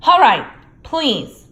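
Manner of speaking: loud, slow, through the teeth; grudging plea. A narrator's reading. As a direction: give in furiously. Filch grudging.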